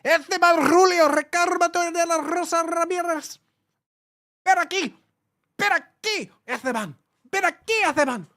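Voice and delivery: high Spanish yell calling a dog; screaming the name. Pretend. Yelling after a dog named Esteban, high and loud. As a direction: scream ven aquí at the dog. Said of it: "you could scream at people".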